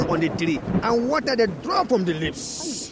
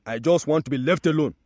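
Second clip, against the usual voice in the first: a bit louder, fed up and dismissive; fed-up tree; 4 dB louder than usual. Acted. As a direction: push them away, mildly cross. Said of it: "The tree said".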